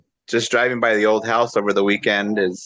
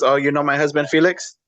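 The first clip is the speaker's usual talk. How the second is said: lightly voiced mother, a little higher; gently raised questioning lift, imitating mom; retold mother; 4 semitones higher than usual. Mother with dementia introducing her husband to her son, lightly imitated. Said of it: "and she goes".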